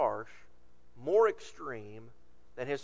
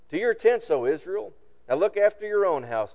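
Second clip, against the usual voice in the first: loud raised rallying call; defiant cry; 6 semitones higher, 7 dB louder than usual. Acted. Israel shouts back at the king, loud and defiant. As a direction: shout it out as a crowd turning away.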